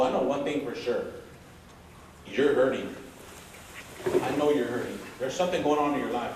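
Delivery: stern teacher lecture, mildly acted; teacher laying into him. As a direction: lay into the student, firm but caring. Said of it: "She's like".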